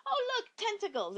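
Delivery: high, airy "oh look" as if nothing is wrong; mock dazed delight. Susan blithely spotting tentacles, mock dazed. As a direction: play it like someone oblivious to danger.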